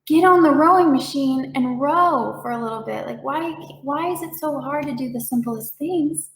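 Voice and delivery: frustrated person scolding their own tired body, mock exasperated; mock self-scolding. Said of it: "judging and shaming our body".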